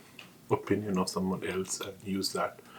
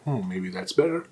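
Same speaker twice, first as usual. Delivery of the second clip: whispering. Pretend. Imagined self changing mind.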